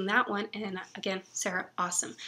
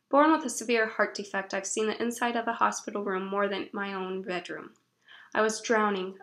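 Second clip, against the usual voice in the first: dramatic blurb reading. Acted. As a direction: read it like a moving book description. Reads book blurb aloud.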